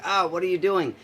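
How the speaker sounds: high, loud acted alarm; mock panicked cry of protest. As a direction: call out as if suddenly pinned down. Retold protest while pinned down.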